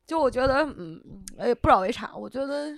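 choked up. Real, not acted. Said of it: "你别哭".

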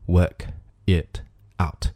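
work, it, out as stiff separate words; robot-like, unlinked. Shown as a demonstration. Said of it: "就像机器人一样". (work it out 像机器人一样一个词一个词地读)

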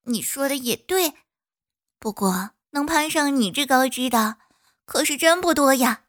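cheerful little bee reassuring. Acted. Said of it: "蜜蜂说".

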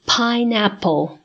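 pineapple said slowly, syllable by syllable; teacher slowing pineapple down; slow model word. Shown as a demonstration. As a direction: stretch pineapple out for the class. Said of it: "下面我们来学菠萝这个单词".

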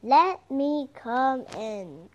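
slow, mildly growled wolf call; a hint of a growling wolf at the door. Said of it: "growled the wolf".

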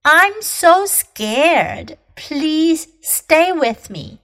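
high-pitched, slow plea from someone scared; mildly frightened, pleading; literal fear. Shown as a demonstration. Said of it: "是我好害怕".

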